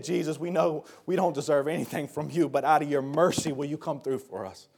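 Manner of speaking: soft, low acted prayer; humble plea. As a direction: ask meekly, expecting nothing owed. Contrasts humble plea with entitled demand.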